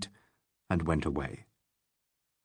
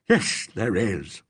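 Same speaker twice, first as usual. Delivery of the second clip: sort of fury; much slower than usual. Acted. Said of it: "contradicted Legg in a sort of fury".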